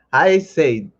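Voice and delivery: slow preacher build; mock sermon call. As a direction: lean into it like a preacher. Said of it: "let me put on my little preacher voice".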